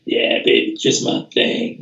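low husky reply, half-voiced; a jazz musician. Star trumpeter answering an admirer, low husky impression. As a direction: toss it off low, like a laid-back jazzman. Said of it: "Mister Davis".

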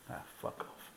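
under-the-breath whispered brush-off; whispered, soft curse under the breath; muttered dismissal. Real, not acted. Muttered dismissal while reading waffle.

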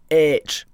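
H said as "aitch", no h at the front; pronounced aitch. Shown as a demonstration. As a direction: begin H on a bare vowel. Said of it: "apparently it is".

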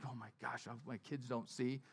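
hushed, sheepish aside while tearing up at a movie; embarrassed hush. Retold or imitated. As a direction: mutter it so nobody hears. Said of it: "I'm like".

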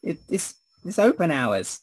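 put-on high, wavering old woman voice. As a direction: play a fussy weird old woman. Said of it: "says the weird old woman".

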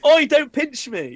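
loud, high, slow laughing cry; laughing protest. Real, not acted. Being pinched.

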